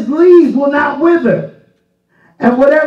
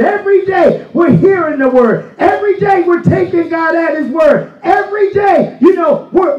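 raised, driving preacher cadence; full-force preaching; 3 semitones higher than usual. Acted. Preacher urging the congregation to live the word, full force. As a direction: build the congregation up, hammering every day.

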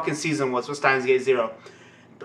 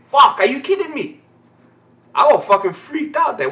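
higher, hyped disbelief; higher, louder, wound-up reaction; excited shock; 9 semitones higher, 4 dB louder than usual. Real, not acted. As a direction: still rattled by the scare. Reacting to the scene.

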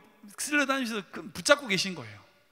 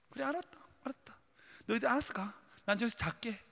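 resigned concession; 3 semitones higher, 6 dB quieter, faster than usual. Acted. Jesus giving in to disciples.

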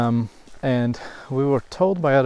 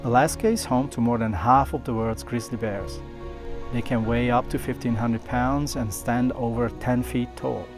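calm documentary voiceover; nature documentary; 4 dB quieter than usual. A narrator's reading. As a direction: narrate the wildlife scene calmly. Narrated voiceover over music.

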